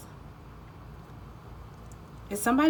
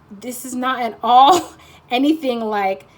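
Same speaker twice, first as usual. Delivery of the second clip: a loud laugh breaks into the quote; laughing through a quote; 4 semitones higher, 9 dB louder, slower than usual. Retold or imitated. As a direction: laugh it out while imitating the viewer. Imagined listener, laughing mid-quote.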